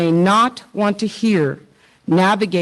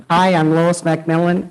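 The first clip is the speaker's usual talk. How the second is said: laughing. Real, not acted. Still laughing from the teasing.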